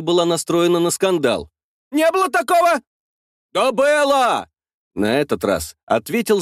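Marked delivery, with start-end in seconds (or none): 1.9-2.8 high woman's voice, stress on такого; indignant denial. A narrator's reading. Woman denies loudly. 3.5-4.5 high shouted rebuttal. A narrator's reading. Tractor driver retorts.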